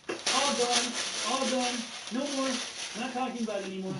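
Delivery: mocking sing-song dismissal; lightly mocking, singsong brush-off; condescending. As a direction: talk down to them like a scolded kid. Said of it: "he's being so condescending right now".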